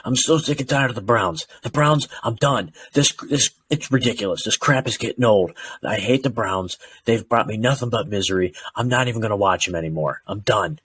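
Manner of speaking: retelling a furious text, half-hearted venting; pissed-off cousin. Retold or imitated. Cousin fed up with the Browns, mock angry rant. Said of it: "He was so pissed".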